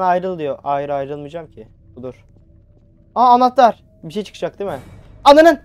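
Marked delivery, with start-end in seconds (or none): 3.1-3.8 higher, louder sudden discovery; surprised find. Real, not acted. Finds key suddenly. 5.2-5.6 much higher, much louder scared yell; frightened shout. Real, not acted. Jumpscare hits.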